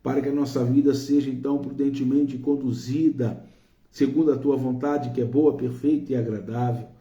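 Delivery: earnest, projected prayer addressed to God; fervent prayer. Real, not acted. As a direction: pray aloud for each person, insistently. Leads a spoken prayer. (oração fervorosa em voz alta)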